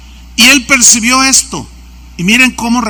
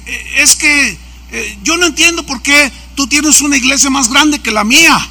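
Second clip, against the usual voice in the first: higher, mildly indignant complaint; imitated brusque pastor; 5 semitones higher than usual. Pastor resents the bigger church, imitated brusque complaint. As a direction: protest like a jealous rival, half in earnest. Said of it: "me empieza a hablar golpeado".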